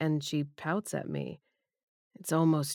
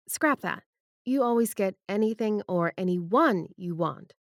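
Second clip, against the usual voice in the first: firm; 4 semitones higher than usual. Acted. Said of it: "Debbie says firmly".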